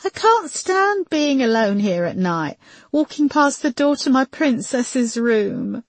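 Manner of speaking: high, plaintive voice near tears; holding back tears. A narrator's reading. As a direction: plead pitifully, as if forcing back tears. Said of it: "trying to keep back tears".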